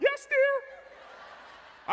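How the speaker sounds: very high, frightened, meek, timid squeak. Speaker retells giving in to her about the cart, mock-scared high voice. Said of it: "Then my voice got high".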